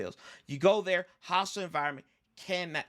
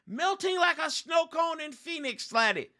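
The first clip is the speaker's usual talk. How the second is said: Mrs. Doubtfire quote; 9 semitones higher than usual. Retold or imitated. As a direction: toss off a hammed-up nanny impression. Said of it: "What did Missus Doubtfire say?".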